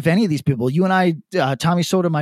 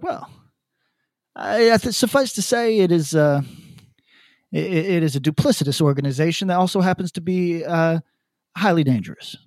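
imitating Thomas Sowell. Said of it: "so he talks like that".

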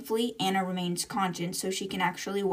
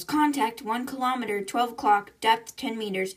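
mild retold yell; 3 semitones higher than usual. Crew member reports enemy contact to the bridge, mild retold yell. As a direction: call out a contact report, restrained. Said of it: "Virgil yells".

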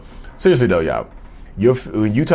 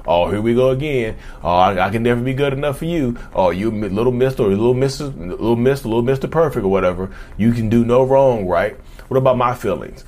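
lightly voiced whiny, defensive rant; mock the self-pitying complaints; defensive narcissist rant. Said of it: "they're automatically gonna think".

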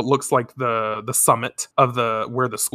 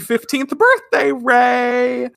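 high, loud celebratory shout; excited cheer; 10 semitones higher, 5 dB louder than usual. Acted. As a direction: cheer it as a surprise. Friends shouting birthday greeting.

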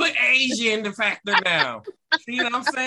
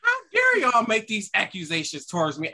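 appalled. Acted. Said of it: "I am appalled right now".

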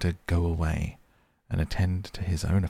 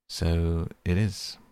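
great heartiness. A narrator's reading. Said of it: "with great heartiness".

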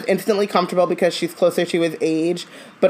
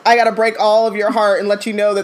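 slangy Moody; 2 semitones higher, faster than usual. Retold or imitated. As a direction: deliver hard truths like a cool uncle. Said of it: "When it sounds like".

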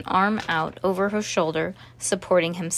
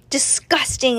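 exclaimed; 6 semitones higher, 3 dB louder than usual. A narrator's reading. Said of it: "exclaimed Miss Mavius".

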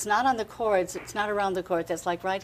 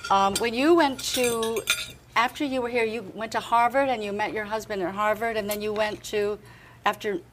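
talking through a bite of crab cake; mouth full. Real, not acted. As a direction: speak with mouth full of food. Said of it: "I have to have one bite of my, my crab cake".

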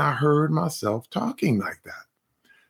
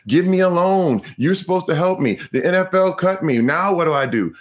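entitled whining; 4 semitones higher than usual. Retold or imitated. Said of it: "always blaming everybody else".

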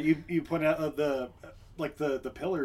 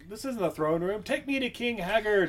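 higher-pitched mock objection; indignant protest; 5 semitones higher than usual. Visitors protesting to their guards, indignant. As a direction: protest as if you've been tricked. Acted protest at being misled.

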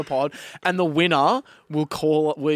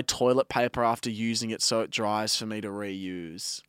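whispering; 6 semitones lower, 6 dB quieter than usual. Acted. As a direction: drop to a whisper on the last words. Embarrassing confession read aloud.

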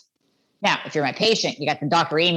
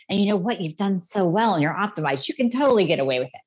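tempting inner voice. Retold or imitated. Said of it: "self-sabotage where you go".

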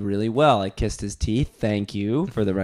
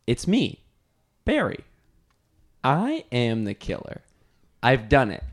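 dramatic poem recital. Shown as a demonstration. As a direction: recite it with heavy pauses. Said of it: "recite that poem?".

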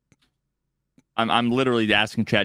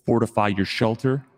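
horror trailer voice; 3 semitones lower than usual. Pretend. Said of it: "stock trailer voiceover".

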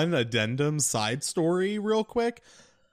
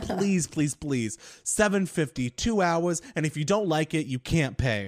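yearning plea; 4 semitones higher than usual. Retold or imitated. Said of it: "the yearning in this man's voice".

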